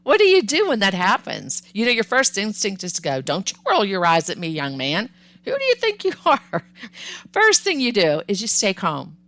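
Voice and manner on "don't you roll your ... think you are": scolding parent. Acted. Parent's instinctive scolding in example.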